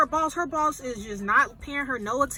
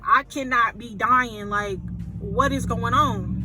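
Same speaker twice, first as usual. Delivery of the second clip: loud, slow, stunned protest against the diagnosis; half-shouting that this can't be; panicked disbelief; 4 dB louder, slower than usual. Retold or imitated. Georgia pleading to doctors, panicked and loud.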